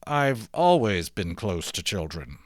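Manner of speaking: slow words through gritted teeth. Acted. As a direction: force it out through clenched teeth. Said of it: "I said, gritting my teeth".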